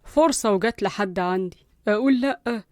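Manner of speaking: softly thinking aloud, unhurried; talking to himself. Acted. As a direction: murmur it slowly to yourself. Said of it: "قال لنفسه".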